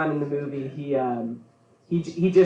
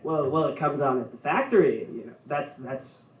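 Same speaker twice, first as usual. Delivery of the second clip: put-on Minnesota accent; 4 dB quieter than usual. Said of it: "I love how they talk".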